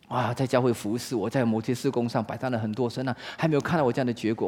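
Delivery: soft, weary complaint to God; hushed, fretful prayer; worried lament. Acted. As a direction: sigh out the worry under your breath. Voices a worried small-group leader's prayer.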